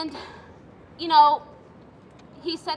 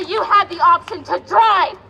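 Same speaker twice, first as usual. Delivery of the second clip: slow, louder mock of the naysayers; mocking dismissive quote; 3 dB louder than usual. Woman at a rally mocking what people tell her, slow and loud. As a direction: drag it out like a smug critic. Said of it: "they say".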